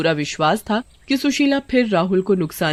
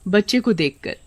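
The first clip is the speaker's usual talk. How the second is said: plain reading voice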